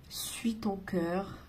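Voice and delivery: slow hushed whisper. Acted. Guides whispering comfort to the viewer. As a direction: breathe it slowly like a secret comfort. Voicing guides' soothing message.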